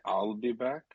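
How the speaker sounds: light Terminator line; a hint of the Terminator; Arnold Schwarzenegger impression. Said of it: "Arnold Schwarzenegger reference".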